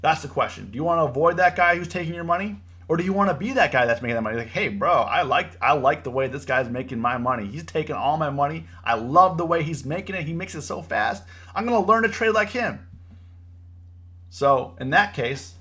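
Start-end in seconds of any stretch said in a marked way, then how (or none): 4.5-12.9 lightly played naive fanboy gushing, lifting at the end; mock admiration. Losing trader praising the guy taking his money, mock admiration. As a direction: imitate someone cluelessly impressed. Voices a gullible fan of winner.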